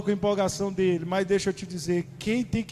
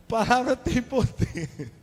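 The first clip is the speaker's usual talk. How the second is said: slow and higher, each word weighted; mock-solemn warning; 7 semitones higher, 4 dB louder, slower than usual. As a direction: wag a finger at bad omens.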